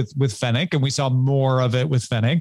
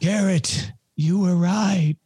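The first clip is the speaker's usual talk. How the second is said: teasing; 4 semitones higher, slower than usual. Pretend. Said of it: "mock demand".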